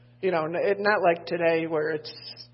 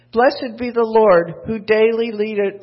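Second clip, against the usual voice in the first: misread verse; 3 semitones higher, 8 dB louder than usual. Acted. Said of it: "no, that's not what I wanted".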